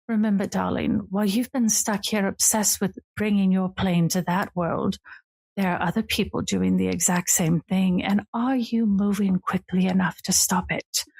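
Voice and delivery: lightly voiced regal older sister, teasing; a hint of a grand lady purring at her brother. Sister greeting her brother on the porch, lightly regal and teasing.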